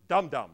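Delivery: both words in "dum dum" stressed; spondee stress. Shown as a demonstration. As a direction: give "dum dum" two equal strong hits. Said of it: "two consecutively stressed syllables".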